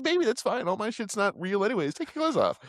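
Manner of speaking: high, mock-seductive coaxing; sexy seductress voice. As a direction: coax like a hammed-up temptress. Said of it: "loses the sexy accent".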